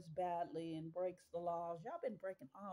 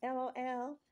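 laughing out L O L; 4 semitones higher, 7 dB louder than usual. Real, not acted. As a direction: spell it out through laughter.

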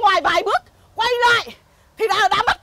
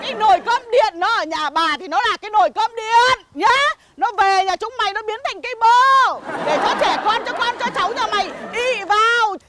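chửi đổng ầm ĩ. Acted. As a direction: hurl curses at the whole village. (chửi đổng giả vờ đanh đá)

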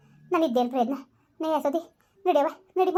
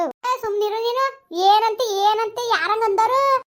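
higher, louder urgent what-happened; alarmed questioning; 7 semitones higher, 5 dB louder, slower than usual. Acted. Neighbour cuts off the wailing mother, urgently asking what happened. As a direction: demand the news fast.

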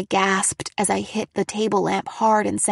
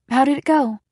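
eager mother; 4 semitones higher, 5 dB louder, faster than usual. A narrator's reading. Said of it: "she ordered".

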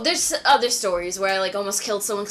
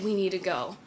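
retold urgent woman; 5 semitones lower, 9 dB quieter than usual. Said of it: "she's like".

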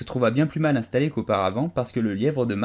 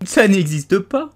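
louder, higher, slow angry cry; angry outcry; 10 semitones higher, 7 dB louder, slower than usual. A narrator's reading. Alice cutting off the Dormouse's tale, angry and loud. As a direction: snap back in disbelief, a bit slow. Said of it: "s'écria Alice avec colère".

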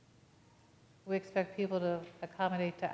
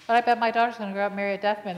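through tears; 2 semitones higher, 8 dB louder, faster than usual. Retold or imitated. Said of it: "she burst into tears and said".

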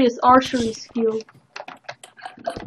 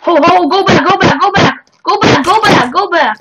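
urgent shouting; 4 semitones higher, 4 dB louder than usual. Real, not acted. Urgent retreat call in game.

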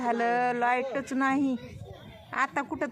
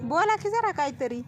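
higher, louder coaxing call; 7 semitones higher, 3 dB louder than usual. Real, not acted. Vlogger urging a shy old villager on camera, raised coaxing voice. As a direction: call out to get them talking.

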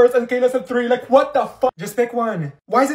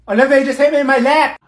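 laughing protest; 4 semitones higher, 6 dB louder than usual. Acted. Laughing after being hit.

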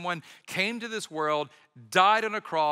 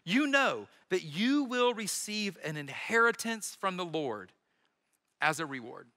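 quoting Paul. Acted. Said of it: "he says".

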